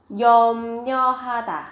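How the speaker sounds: 염려하다 said as 염녀하다, the ㄹ turned into n; nasal assimilation. Shown as a demonstration. Teacher showing students 염려하다 spoken as 염녀하다. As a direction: read 염려하다 with n not r: 염녀하다. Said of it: "khi phát âm thì các bạn đọc là nho".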